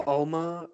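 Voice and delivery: "Alma" as OLE-muh; "Alma" starting like "old"; mangled pronunciation. Shown as a demonstration. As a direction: round the first vowel of "Alma" into an o. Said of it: "or something like that".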